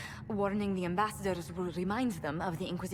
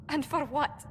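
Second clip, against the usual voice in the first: angry outburst; 5 semitones higher than usual. Acted. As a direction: fling the question at the others in anger. Heated quarrel among advisors.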